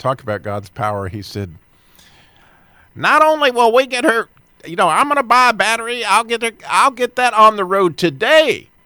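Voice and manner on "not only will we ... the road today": put-on strong Texas accent, higher and louder. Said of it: "speaking in a very strong Texas accent".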